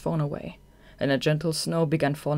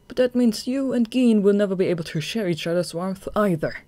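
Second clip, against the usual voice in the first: higher, louder, stress on that; firm retort; 5 semitones higher, 5 dB louder than usual. Acted. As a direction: turn his words back on him. Atsushi throws the words back.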